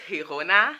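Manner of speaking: Girona with a breathy H, "hee-ROH-na"; Spanish-style "hee-ROH-na" for Girona; Spanish pronunciation. Shown as a demonstration. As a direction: say Girona the Spanish way, starting with an H sound. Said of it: "Girona in Spanish".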